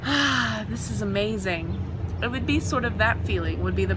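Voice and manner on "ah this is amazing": blissful sigh. Retold or imitated. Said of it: "slip into a hot bath".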